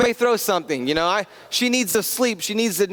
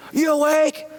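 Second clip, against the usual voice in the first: put-on high, loud kid's yell right in the ear; son yelling; 9 semitones higher, 3 dB louder, slower than usual. Son yells to wake his sleeping father, loud and high. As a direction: shout it like an impatient little boy waking his dad. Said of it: "He's just yelling in my ear".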